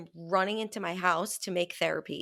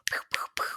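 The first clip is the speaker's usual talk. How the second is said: unvoiced finger-gun shots; whispered pew pew; much faster than usual. Miming blasting things to a friend, whispered pew pews. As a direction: breathe out little laser shots. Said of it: "I was so".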